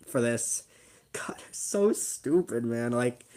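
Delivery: whispered, slow and cringing; embarrassed whisper. Real, not acted. Cringing at his old video, whispering in embarrassment. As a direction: breathe it out in disbelief at yourself.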